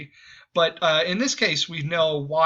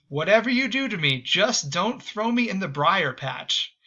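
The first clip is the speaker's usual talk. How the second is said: pleading rabbit; 5 semitones higher than usual. Retold or imitated. Caught rabbit begging the fox, mock pleading.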